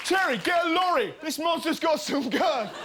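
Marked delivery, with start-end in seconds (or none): 0.0-1.1 mock calling out. Calling out to Cherry.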